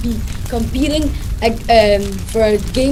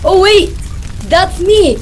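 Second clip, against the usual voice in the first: brash, louder showy greeting; loud flirty villain; 4 semitones higher, 4 dB louder, slower than usual. Acted. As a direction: strut in full of yourself.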